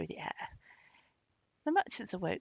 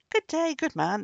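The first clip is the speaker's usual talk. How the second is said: loud, higher-pitched greeting; hearty hail; 8 semitones higher, 8 dB louder than usual. A narrator's reading. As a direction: hail a stranger from a boat. Merchants hail the archer.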